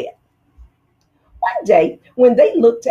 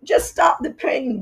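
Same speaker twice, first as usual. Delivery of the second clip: whimpering; 6 semitones higher than usual. Acted. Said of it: "whimpered the fox".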